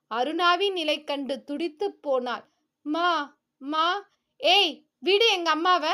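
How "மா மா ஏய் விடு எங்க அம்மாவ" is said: put-on screaming child. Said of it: "கத்தி கதறினாள்".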